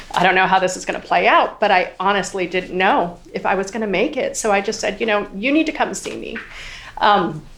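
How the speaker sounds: holding back tears. Real, not acted. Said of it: "I'm gonna do my best not to cry".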